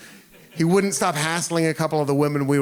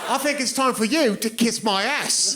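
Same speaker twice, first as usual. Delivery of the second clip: put-on British accent; 5 semitones higher than usual. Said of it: "in that accent".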